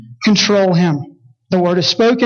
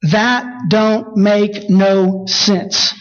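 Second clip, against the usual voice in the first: imitating Pete; much slower than usual. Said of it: "Pete yells this great moment".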